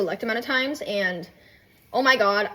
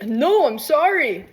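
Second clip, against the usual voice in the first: mock apologetic plea; 4 semitones higher, 4 dB louder, much slower than usual. Partner's acted apology.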